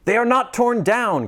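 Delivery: high, delighted cry; joyful cry. Acted. Scrooge crying out joyfully over his bed curtains. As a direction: cry out in disbelieving joy. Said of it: "cried Scrooge".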